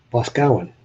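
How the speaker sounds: Boscawen read out as BOS-cow-en, three syllables; spelling pronunciation. Shown as a demonstration. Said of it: "is how it looks when it's written out".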